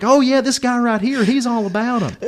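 high-pitched, teasing sales pitch for a buddy; egging on. Retold or imitated. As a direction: talk him up to needle him. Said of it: "I had to ag it on".

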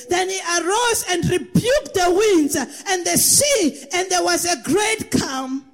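full-force preaching read of the verse. Acted. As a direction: proclaim it like a preacher at the pulpit. Preacher reads scripture loudly.

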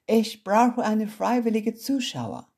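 high, loud, slow showy announcement; ringmaster announcement. Acted. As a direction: call it out to the whole arena. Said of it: "Dann verkündete sie". (Olivia verkündet dem Publikum laut und langsam)

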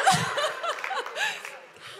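rising high giggle; high giggle cutting off the praise. Real, not acted. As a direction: break into a giggle. Pastor laughing at story.

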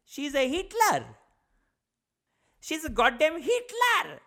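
high, loud, drawn-out accusing shout; hammed-up shouting dad voice; outraged dad impression. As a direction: imitate an outraged father yelling. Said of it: "he looks at me and he goes".

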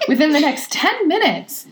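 hammed-up TV pitchman; infomercial. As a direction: sell it like a late-night ad. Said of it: "I don't know where my accent".

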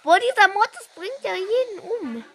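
exasperated shout. Real, not acted. Frustrated at strong enemy.

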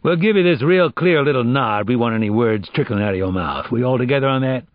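lightly voiced streetwise interrogator; huge agent laying down terms. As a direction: lay it out for a suspect, with emphasis.

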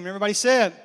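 preacher's rising call; call for amen. Acted. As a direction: rouse the room to answer. Calls congregation to say amen.

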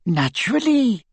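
high, proud grandmother; high-pitched elderly satisfaction; proud old lady. A narrator's reading. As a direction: say it with an old witch's pride. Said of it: "said the old lady proudly".

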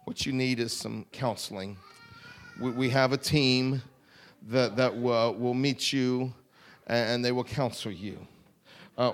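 lightly mocking a prosperity preacher asking for money; mock slick preacher. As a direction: sell it with fake concern. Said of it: "he didn't say".

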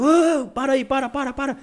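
calling out high and loud to stop the car; retold shout. Mechanic shouting after the departing driver, high loud call. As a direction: yell after him to stop. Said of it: "o cara gritou".

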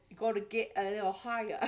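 tentative stab at an Australian accent; amateur Aussie accent; attempted Australian accent. Shown as a demonstration. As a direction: copy an Australian accent, not quite landing it. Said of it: "how to do an Australian accent".

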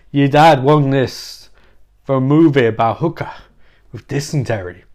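a lightly done Walken, pausing oddly mid-line; Chris Walken impression. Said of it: "I'll do certain parts in his voice".

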